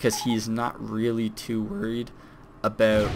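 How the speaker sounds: voice cracking and breaking mid-sentence. Speaker explaining someone's choices when the voice suddenly cracks: voice cracking. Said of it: "that was a little voice crack".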